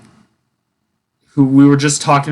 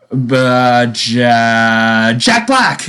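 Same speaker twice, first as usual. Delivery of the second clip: put-on teen's first guess; much slower than usual. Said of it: "no, no, he was like".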